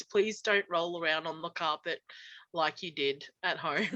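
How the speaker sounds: low, subdued German dad with a Russian tinge; dad's attempted German accent. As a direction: imitate a deep-voiced German father. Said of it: "try to make him sound Russian".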